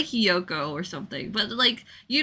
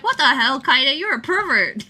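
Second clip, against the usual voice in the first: louder, teasing accusation ending in a laugh; mock outrage; 4 semitones higher, 4 dB louder than usual. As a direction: call her out, half laughing. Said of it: "I'm like".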